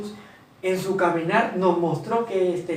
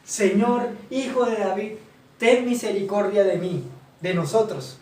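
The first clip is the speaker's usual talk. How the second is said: clamaban más fuerte; 3 semitones higher than usual. Acted. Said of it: "clamaban más diciendo".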